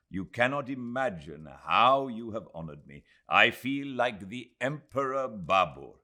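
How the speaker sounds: Aziz, effusive host. A narrator's reading. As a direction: gush with proud hospitality.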